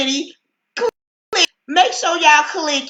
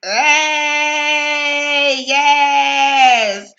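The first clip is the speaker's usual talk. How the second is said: excited shout; 2 semitones higher, much slower than usual. Real, not acted. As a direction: shout it out to open the show. Opening the live show, greeting.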